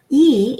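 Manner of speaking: E said as a closed "ay" without glide; tight, pure "é" for E; accented French E. Shown as a demonstration. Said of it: "because it has an accent".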